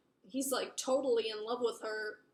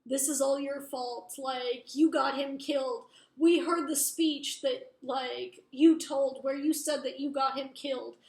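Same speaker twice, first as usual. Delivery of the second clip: mock accusation; 4 dB louder than usual. Older siblings blame her for his death, mildly heated accusation. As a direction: lay the blame on them, retelling style.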